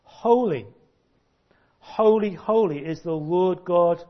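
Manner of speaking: loud, ringing cry of holy. Retold or imitated. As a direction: proclaim it like the seraphs calling out. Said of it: "they were crying out".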